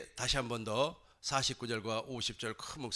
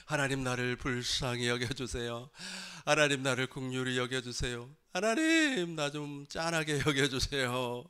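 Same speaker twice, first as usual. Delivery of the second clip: retold desperate prayer. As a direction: imitate a weary man begging God. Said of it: "너무 힘이 드니까 두 손을 번쩍 들고".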